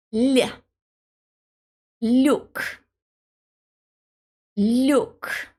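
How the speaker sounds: "look" with a soft palatal l gliding into yu; "l" then "look", the l soft and relaxed. Shown as a demonstration. Teacher models the soft l in "look", clearly articulated. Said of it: "is pronounced soft".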